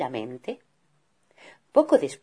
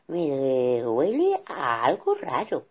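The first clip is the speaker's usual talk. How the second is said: a hint of mother bear; slower than usual.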